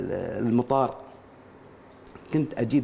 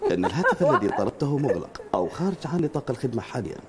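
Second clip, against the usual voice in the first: woman's phone recording voice. Acted. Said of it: "مال اتصال حرمة".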